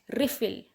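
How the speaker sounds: रिफिल with stress on RE; रिफिल: REE-fil, noun stress on the front; stress on first syllable. Shown as a demonstration. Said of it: "री के ऊपर stress दें".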